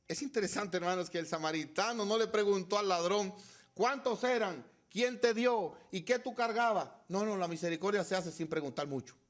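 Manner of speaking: loud, high-pitched pulpit delivery; impassioned sermon climax; full-force preaching. Real, not acted. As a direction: drive the point home at the top of the voice.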